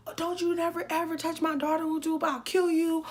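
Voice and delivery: high-pitched mock threat, not shouted; imitated furious mom. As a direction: act out a protective mother going off. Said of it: "my mom was going the fuck off".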